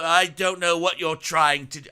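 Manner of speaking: a lightly done, bad British evil voice; the devil barely putting on a British accent. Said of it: "he has a bad British accent".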